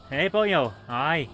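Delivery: brief hammed-up mock Welsh; fake Welsh accent. Gamer mocking own accent slip, fake Welsh accent. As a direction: toss in a bad Welsh accent. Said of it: "A terrible fake Welsh accent".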